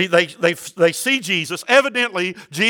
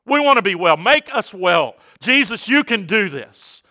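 retold loud cry for healing; crying out loudly; 3 semitones higher than usual. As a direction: call out as lepers begging from a distance. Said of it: "they cried out in a loud voice".

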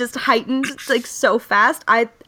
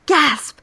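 spoken gasp; 4 semitones higher than usual. Retold or imitated. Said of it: "being like".

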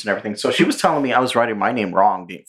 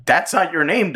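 mom voice; 8 semitones higher than usual. Retold or imitated. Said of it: "And she goes".

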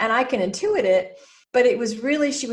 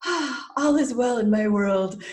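slow, content, relaxed release; blissful sigh; 2 semitones higher, slower than usual. Retold or imitated. Guest after Pilates, slow and content. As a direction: breathe out after a good workout. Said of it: "I took Pilates and I'm like".

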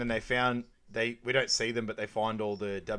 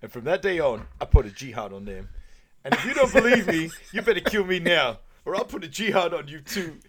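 rising, louder mock terrorist rant; imitating a movie terrorist vowing jihad; acted terrorist threat; 6 semitones higher, 8 dB louder than usual. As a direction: ham up the villain's threat, climbing high. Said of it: "and he goes".

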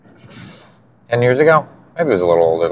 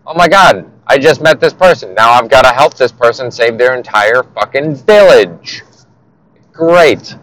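mock exasperation; 4 semitones higher, 3 dB louder than usual. Mock hero overwhelmed by another task.

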